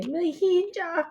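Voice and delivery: slow, faltering mijita; a shaken father barely getting the word out; stammering. A narrator's reading. Father calls his daughter, slow shaken stammer. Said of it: "he stammers".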